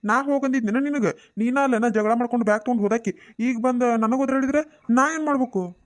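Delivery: exasperated husband defending himself; annoyed scolding. Acted. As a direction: argue back, pitch climbing on each retort. Acted quarrel, husband scolds returning wife.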